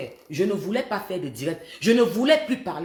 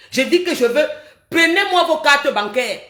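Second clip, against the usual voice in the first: laughing urge; 6 semitones higher, 7 dB louder than usual. Real, not acted. Urging viewers to send gifts.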